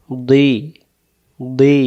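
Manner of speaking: "দুই" with rounded lips, released into ee; heavy d, round mouth let go in "দুই"; rounded DAD. Shown as a demonstration. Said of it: "মুখটা গোল করে ছেড়ে দেবেন".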